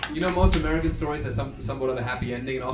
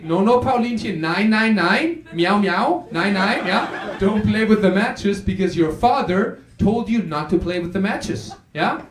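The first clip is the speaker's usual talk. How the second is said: cat voice; 3 semitones higher, slower than usual. Acted. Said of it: "the cats say".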